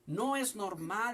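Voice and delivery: slow, weighted "No es normal"; slow emphatic. Shown as a demonstration. Preacher prompting the congregation to repeat, slow and emphatic. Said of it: "diga conmigo".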